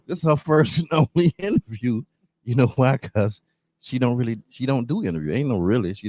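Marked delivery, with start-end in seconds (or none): 0.1-2.0 high, laughing hype about the exclusive guest; laughing while talking. Real, not acted. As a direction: giggle through the announcement. Host hyping exclusive guest.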